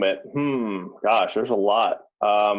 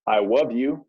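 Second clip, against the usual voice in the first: lightly imitated little kid voice; a hint of a sweet toddler leaving a message. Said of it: "in his little, like, toddler voice".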